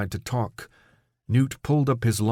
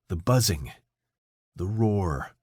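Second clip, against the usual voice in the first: ordinary delivery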